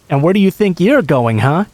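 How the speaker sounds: put-on Filipino accent, rounding on the man; mock Filipino mom accent. Turning on the creep as the pretend mother, mock Filipino accent. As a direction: scold him like an angry Filipino mother. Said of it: "best impersonation of an older Filipino woman getting mad".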